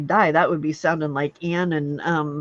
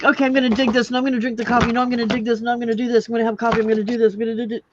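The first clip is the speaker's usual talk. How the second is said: dog's thoughts voice; 5 semitones higher, 4 dB louder, much faster than usual. Retold or imitated. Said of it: "he's like".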